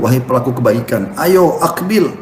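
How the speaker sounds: an angel urging believers in Ramadan; angel calling out. Retold or imitated. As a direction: call people like a heavenly herald. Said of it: "Allah utus malaikat khusus untuk menyuruh".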